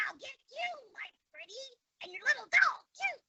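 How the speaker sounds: high cackling witch threat; Wicked Witch of the West. Shown as a demonstration. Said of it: "I can do Wicked Witch of the West".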